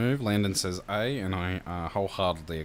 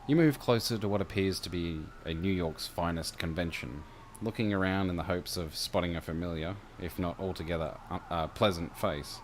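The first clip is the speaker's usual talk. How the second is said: measured second-person game master narration; scene-setting narration. A narrator's reading.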